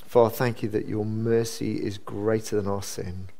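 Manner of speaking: measured, low-key prayer. Real, not acted. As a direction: pray aloud evenly with pauses between phrases. Leads a closing prayer.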